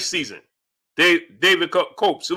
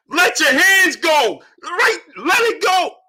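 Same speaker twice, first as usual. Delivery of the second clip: very high, drawn-out scream; 9 semitones higher than usual. Retelling watching the fight at home: retelling screaming at the TV.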